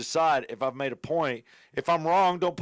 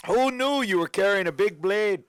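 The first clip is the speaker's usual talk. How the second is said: higher, badly faked Canadian accent; muddled put-on accent; 4 semitones higher than usual. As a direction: overplay a shaky Canadian accent. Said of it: "What the fuck accent is this?".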